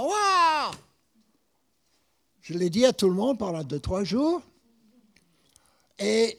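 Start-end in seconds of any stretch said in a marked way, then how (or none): 0.0-0.7 a high, bright burst of delight; excited wow. Retold or imitated. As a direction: gush it like a thrilled fan. Thrilled at hometown on radio.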